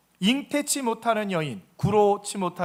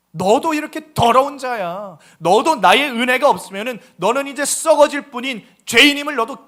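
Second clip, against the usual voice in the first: God rebuking; 2 semitones higher, 6 dB louder than usual. Acted. God confronting Miriam with her own sin, loud stern rebuke. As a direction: thunder the verdict down on her.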